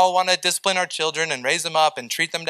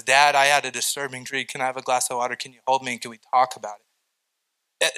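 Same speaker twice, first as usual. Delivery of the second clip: put-on child asking softly; 4 semitones lower, 4 dB quieter, faster than usual. Pastor voices his child asking.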